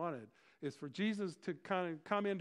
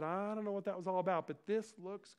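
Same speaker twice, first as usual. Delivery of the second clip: higher voice, stretching into enthusiasm; upbeat shrug; 5 semitones higher than usual. Acted. Disciples entering Jerusalem, forgetting the warning, upbeat. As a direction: brush it off, then draw out the delight.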